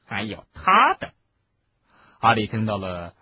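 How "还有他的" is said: high, loud curt order. Acted. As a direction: order the other wand too. Umbridge orders.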